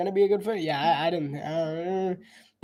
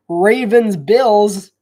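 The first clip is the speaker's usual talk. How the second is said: Ravens-Bills drawn out slow and loud; emphatic repeat; 2 semitones higher, 7 dB louder, much slower than usual. Real, not acted. Streamer stressing the big Sunday night game, slow and loud.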